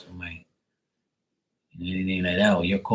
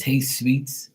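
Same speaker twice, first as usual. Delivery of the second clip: imitating brother-in-law; 5 semitones higher than usual. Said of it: "he says".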